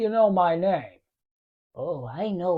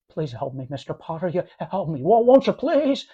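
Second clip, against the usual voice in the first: desperate pleading; 2 semitones lower than usual. Acted. George begging Potter for money.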